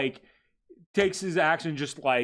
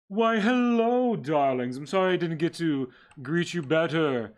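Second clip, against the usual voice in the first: breathy vintage purr; 4 semitones higher, 5 dB louder than usual. Acted. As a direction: purr it like a vain old aristocrat. GM voices Sebastian greeting.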